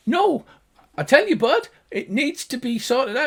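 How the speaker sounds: loud, high arguing gnome; high-pitched gnomish voice. Acted. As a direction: squabble in a tiny high voice. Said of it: "the two high-pitched gnomish voices".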